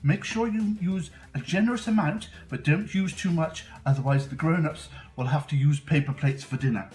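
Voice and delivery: put-on bright, eager kids show host; host a kids science show; overbright kids party host. Kids show host persona Mister Peculiar.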